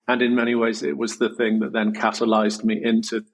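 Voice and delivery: choking up while speaking; choked up. Real, not acted. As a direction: voice thick, choking up. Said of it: "I'm choking up even speaking it".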